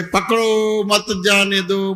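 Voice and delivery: पकड़ो drawn out, then मत जाने दो together; pause after पकड़ो. Shown as a demonstration. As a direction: slowly, break after पकड़ो so मत joins जाने दो. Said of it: "बोलने का था". (पकड़ो को खींचकर, फिर मत जाने दो)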